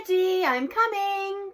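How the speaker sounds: high, loud motherly call. A narrator's reading. Mum hurries back to her son, calling out. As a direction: call across the woods to him. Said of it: "called Mum".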